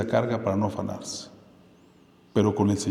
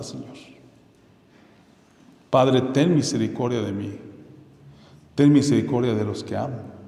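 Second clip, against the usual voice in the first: humble prayer; 3 semitones lower than usual. Shown as a demonstration. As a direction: pray it simply and sincerely. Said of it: "Simplemente basta con decir".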